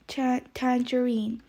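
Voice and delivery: "tangerine" with the last syllable as "een"; clear tangerine demo. Shown as a demonstration. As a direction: say "tangerine" ending in a long "een". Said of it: "As you can see, the I".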